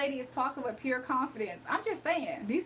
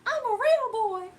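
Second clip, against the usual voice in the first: very high mock whine again; squeaky stress on real; repeating the viewer's Dimitri line; Dimitri impression; 9 semitones higher, 5 dB louder than usual. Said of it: "somebody said".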